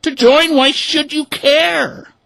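very high, loud, slow duck voice; puzzled ducks. A narrator's reading. Ducks questioning the hens, high. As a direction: question them pointedly. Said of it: "the ducks exclaimed".

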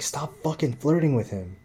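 high, sharp jealous scold; angry scolding. Retold or imitated. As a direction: tell her off in front of the customer. Jealous cook scolding his girlfriend.

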